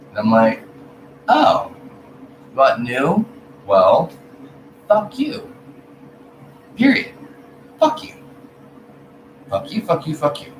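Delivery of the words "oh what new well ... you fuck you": high, loud mock tirade of fuck you; hammed-up defiance at critics; mock furious fuck-you rant; defiant outburst. Retold angry outburst.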